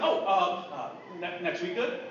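stammering, caught off guard; retold hesitant scrambling for words; flustered cover-up. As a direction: stumble into a tentative question. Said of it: "I was actually shocked".

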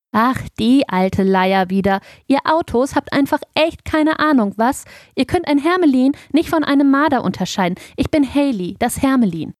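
high, indignant small-animal voice; huffy ermine setting the record straight; exasperated little ermine. A narrator's reading. Ermine character scolds the truck.

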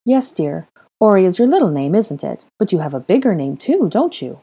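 put-on lightly coaxing older woman; kindly. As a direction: encourage a small child. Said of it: "Molly asked kindly".

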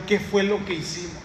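a hushed, worried murmur of realization; softly worried crowd asking themselves; quiet dismay. Retold or imitated. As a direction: say it under your breath in alarm.

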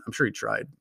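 usual speaking voice

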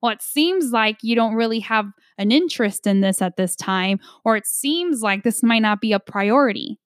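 lightly mocking, faintly superior check-in; a hint of talking down to a distracted listener; mild condescension in an otherwise plain voice; condescending tone. Shown as a demonstration. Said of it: "not in the condescension or the condescending tone like".

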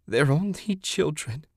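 high-pitched, tearful plea; sobbed. A narrator's reading. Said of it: "she sobbed".

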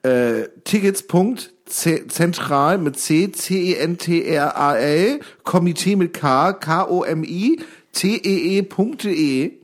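slow letter by letter, "C E N T R A L" spelled out; spelling it out. Shown as a demonstration. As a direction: spell "K O M I T E E" slowly, one letter each. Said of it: "buchstabiere das mal ganz kurz".

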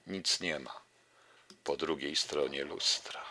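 declaimed verse with falling refrains; poetry recitation. Acted. Poet reads his newest poem to radio listeners, measured recitation. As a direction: recite it line by line, with emphatic openings.

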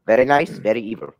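lightly put-on spooky catchphrase; a hint of a playful villain; mild Danhausen voice; Danhausen impression. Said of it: "That's the one impression I can kinda do".

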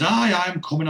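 acted calling out. Neville answering the ringing doorbell, mildly harried call. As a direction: call toward the door, put upon.

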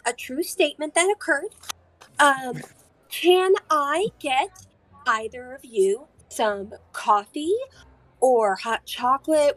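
lightly voiced eager waitress; old lady waitress. Waitress offers coffee and pastries to the party, sweet old lady voice.

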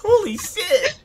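high, loud, laughing disbelief; retold exasperation. Telling friends how brother laughed at misery, laughing exasperation. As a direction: exclaim it high through laughter.

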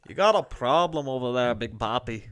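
attempted Irish brogue sliding into Scottish; put-on Scottish-Irish challenge; Scottish-leaning Irish accent. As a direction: try Irish and land nearer Scottish. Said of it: "a little bit more Scottish".

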